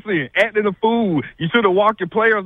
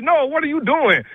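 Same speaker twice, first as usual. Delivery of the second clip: mocking the coach; 6 semitones higher than usual. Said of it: "mocks the coach being nice".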